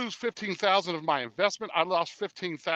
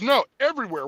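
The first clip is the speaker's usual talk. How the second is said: buddy's voice; 7 semitones higher, 6 dB louder than usual. Retold or imitated. Buddy's voice in retold call.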